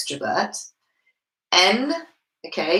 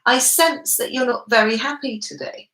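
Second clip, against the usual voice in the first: higher, unhurried, unsure observation; tentative sensing; 4 semitones higher than usual. Shown as a demonstration. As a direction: feel your way through it, higher in pitch. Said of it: "that's my level of confidence".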